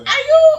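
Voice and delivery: high, loud mock howl; mimicked howl. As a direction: howl it out for laughs. Mimicked howl, repeated for laughs.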